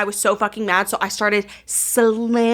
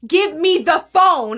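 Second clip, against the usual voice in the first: higher, louder, drawn-out demand; retold yelling; 4 semitones higher, 5 dB louder, slower than usual. Airport worker demanding her phone, mock yelling. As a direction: imitate his yelled order, slow and insistent. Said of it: "they're yelling at me".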